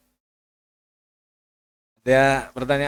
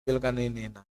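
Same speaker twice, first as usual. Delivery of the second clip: weak sick request; 3 semitones lower, 9 dB quieter, faster than usual. Retold or imitated.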